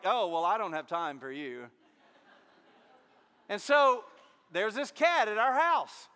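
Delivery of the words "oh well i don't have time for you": a lower, dismissive cat; snooty cat voice. Retold or imitated. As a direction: brush them off like a snobbish cat. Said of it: "cats are like".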